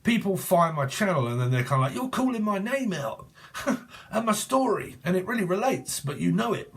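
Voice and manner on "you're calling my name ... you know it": higher-pitched mimicking of an accusing viewer; put-on higher voice, making fun of complainers; mock viewer complaint. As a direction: mimic them in a higher voice, breaking into a laugh. Mimicking viewers who find channel.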